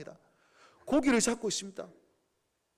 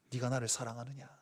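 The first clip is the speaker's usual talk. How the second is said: low, very soft questioning; hushed tender question; 14 semitones lower, 12 dB quieter than usual. Acted. Jesus softly asking Peter if he loves him, hushed. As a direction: ask gently, almost under the breath.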